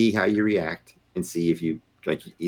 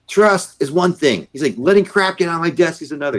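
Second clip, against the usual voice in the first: retold yelling; 11 semitones higher, 4 dB louder than usual. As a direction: bark it out like an angry general.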